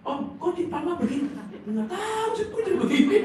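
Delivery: high, loud mock stroke voice; imitated twisted-mouth speech. Woman suddenly struck with crooked mouth, high mock distress. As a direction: play a panicked speaker with a crooked mouth. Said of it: "mulut mengok, wah".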